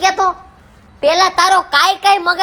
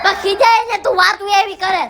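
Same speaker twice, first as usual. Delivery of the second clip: father yelling in frustration about marrying off his daughter; frustrated shout. Acted. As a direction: yell it out in despair. Father justifying his anger.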